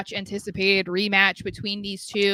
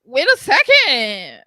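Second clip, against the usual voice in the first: calling out; 6 semitones higher, 7 dB louder, slower than usual. Acted. Calling out to chat joiner.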